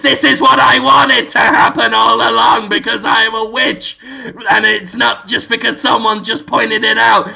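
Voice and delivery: lightly hammed-up villain confession; theatrical witch's reveal; Willem Dafoe. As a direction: declare the twist to the audience. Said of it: "looks at the camera and says".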